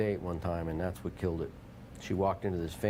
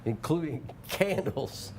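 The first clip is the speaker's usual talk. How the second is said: slow, high put-on Scottish accent; 5 semitones higher, slower than usual. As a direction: draw it out in a hushed-up mock Scottish voice. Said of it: "Scottish again".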